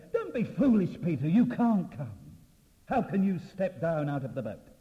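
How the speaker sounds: high, loud opening, easing into forceful warning; scolding wind. Acted. Preacher voices the wind warning Peter off, loud and scolding. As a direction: cry out a storm's warning.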